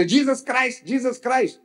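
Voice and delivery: high-pitched mock hailing; calling out. Preacher imitates believers shouting to someone unaware, calling out. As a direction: call the name twice, high, without real volume. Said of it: "He don't know what you're shouting".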